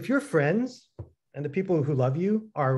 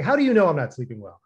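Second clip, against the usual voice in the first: defensive; 3 dB louder, faster than usual. Retold or imitated. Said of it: "I started getting defensive".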